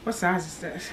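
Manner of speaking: breathless, short of air; out of breath. Real, not acted. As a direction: talk while winded. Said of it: "I'm out of breath".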